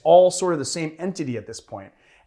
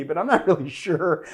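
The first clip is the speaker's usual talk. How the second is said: laughing while talking. Real, not acted. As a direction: chuckle breaking into the sentence. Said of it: "I'm actually laughing so hard".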